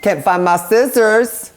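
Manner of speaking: building fretful complaint; frustrated whine. Real, not acted. Searching for scissors.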